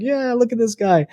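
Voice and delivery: playfully imitating parents bragging about their son; proud parents. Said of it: "My parents are like".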